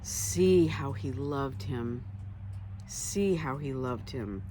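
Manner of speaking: slow and hushed; slow tender awe. Acted. Jews watching Jesus weep, slow and tender. Jews marvel at his love.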